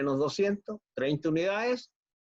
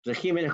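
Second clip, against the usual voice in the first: "regímenes" stressed on the syllable "gí". Shown as a demonstration. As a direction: say "regímenes" with the accent on the í. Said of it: "con acento en la I".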